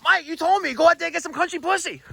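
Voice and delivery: high-pitched retelling of the claimant; imitating a claimant. Boss retelling claimant's hearing testimony, imitating him. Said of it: "he actually said".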